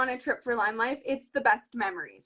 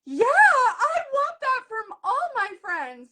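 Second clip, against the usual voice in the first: emotional retold reply; 11 semitones higher, 4 dB louder, slower than usual. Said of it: "I was crying".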